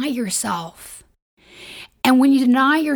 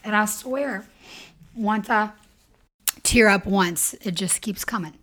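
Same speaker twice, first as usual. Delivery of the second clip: teary. Real, not acted. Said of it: "I got emotional for a moment".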